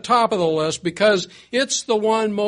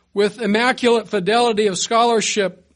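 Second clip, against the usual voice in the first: dry mock praise, lightly sarcastic; sarcastic reading; 2 semitones higher, 3 dB louder than usual. Shown as a demonstration. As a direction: read it with a sneer of irony. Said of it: "I hope I read that sarcastically enough".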